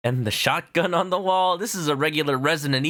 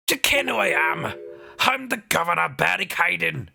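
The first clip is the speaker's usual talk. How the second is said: Scottish governor; 3 semitones higher than usual. Acted. Governor introduces himself in a light Scottish accent. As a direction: roll it out as a proud Scot. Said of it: "he's Scottish".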